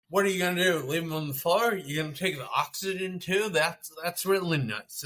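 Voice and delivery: retold berating. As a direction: imitate someone telling off the movers. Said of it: "berating them".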